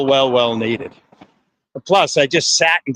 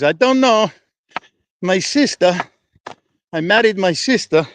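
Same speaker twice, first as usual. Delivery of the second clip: comedian impression; 5 semitones higher than usual. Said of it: "channeling their inner, uh, comedian".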